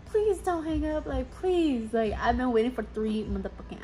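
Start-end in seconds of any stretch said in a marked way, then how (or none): 0.0-1.9 higher, pleading hellos; mock desperate hello on the phone. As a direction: beg them not to hang up. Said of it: "I'm over here at the other end like".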